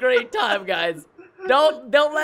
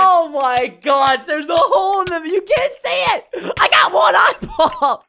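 exasperated shout; 3 semitones higher, 5 dB louder than usual. Real, not acted. Couldn't see hole, exclaims.

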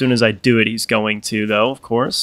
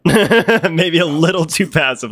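laughing; 5 semitones higher, slower than usual. Real, not acted. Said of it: "Maybe a little too passive on my part".

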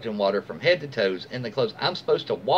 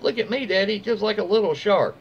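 higher, sing-song mock mother voice; higher mock-sweet mother talking to her son; cooing mother; 8 semitones higher than usual. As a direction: imitate the mother filming her kid. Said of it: "saying stuff like".

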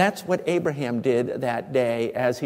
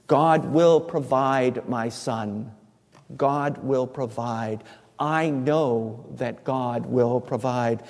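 calm reassurance; 3 semitones lower, slower than usual. Acted. Abraham reassuring his son Isaac.

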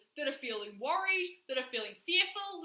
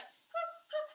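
imitated little huffs of a child; small upset whimper; 13 semitones higher, 4 dB quieter than usual. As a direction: mimic a child starting to fuss. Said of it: "a child's just a wee bit upset".

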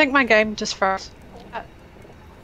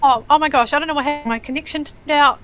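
choppy robotic lag voice; glitchy robot sound from bad connection; 4 semitones higher, 4 dB louder than usual. Real, not acted. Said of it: "you're a robot".

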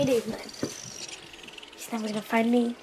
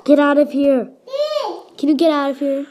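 yelling across the room; 2 semitones higher, 3 dB louder than usual. Real, not acted. Yelling at sibling to leave.

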